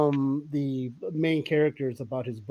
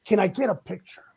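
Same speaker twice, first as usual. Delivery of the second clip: higher-pitched, gushing fan voice; 5 semitones higher than usual. Retold or imitated. Fan meeting the actor asks for a picture, higher and gushing. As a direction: rattle it off like a starstruck fan. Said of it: "this guy's like".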